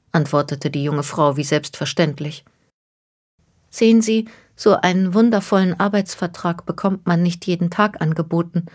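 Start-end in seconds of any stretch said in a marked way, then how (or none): 3.7-8.7 put-on a slightly higher, worried young woman's voice; anxious young woman, lightly voiced. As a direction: voice her as a troubled young woman, only lightly raised. The speaker speaks again.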